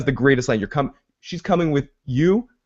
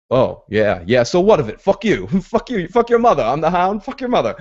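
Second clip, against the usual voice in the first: mock Hound rant; 4 semitones higher than usual. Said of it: "the Hound's like".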